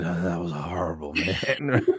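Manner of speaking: a hint of a battered little rodent; guinea pig voice. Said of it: "He was like".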